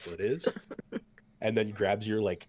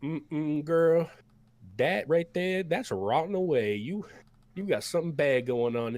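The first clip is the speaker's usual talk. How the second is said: put-on much higher, louder folksy old cook voice; 8 semitones higher, 5 dB louder than usual. The cook hands bowls to the battered party, high and folksy. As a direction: play the big cook fussing over them. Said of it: "he's like".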